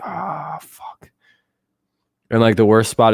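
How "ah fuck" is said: retold hushed curse. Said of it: "I'm like".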